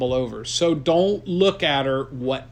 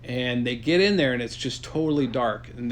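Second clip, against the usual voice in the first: usual speaking voice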